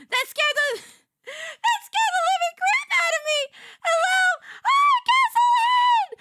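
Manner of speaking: high, loud waitress greeting; bubbly high fifties waitress welcome; diner waitress. Acted. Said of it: "nineteen fifties diner waitress VTuber".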